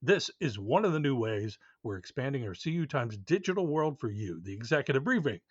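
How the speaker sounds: upbeat promo read. Acted. Host reading a subscription ad to listeners, upbeat promo voice. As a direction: sell the newsletter to listeners.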